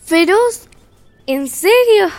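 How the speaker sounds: incredulous. Acted. Caperucita mocks the fierce wolf.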